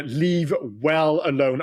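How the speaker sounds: slow, each word weighed; slow emphatic. Real, not acted. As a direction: spell it out slowly, leave well alone.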